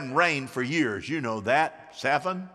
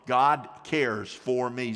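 slow affirmation; 5 semitones lower, slower than usual. Shown as a demonstration. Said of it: "Say that with me".

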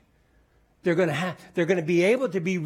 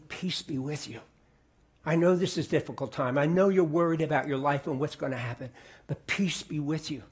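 tender reassurance. Acted. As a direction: settle their fear gently. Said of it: "He is saying".

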